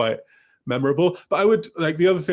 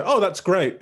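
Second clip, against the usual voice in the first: higher-pitched, pleased reaction; happy; 6 semitones higher, slower than usual. Shown as a demonstration. Teacher models an interjection of happiness, happy. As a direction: show happiness with a lifted "that's great". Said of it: "is showing happiness".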